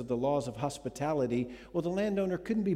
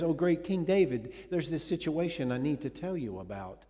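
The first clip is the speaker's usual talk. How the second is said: Nathan's address; 3 semitones higher than usual. Acted. Nathan addresses king David.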